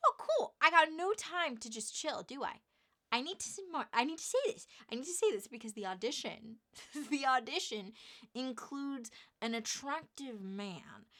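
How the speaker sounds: high, loud, rushed panic to herself; panicking in her head before the audition; frantic inner panic. Retold or imitated. Nervous actress rambling to herself in high excited panic.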